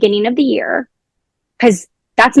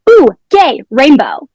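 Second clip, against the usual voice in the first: put-on excited kid; 3 semitones higher, slower than usual. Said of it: "they would be like".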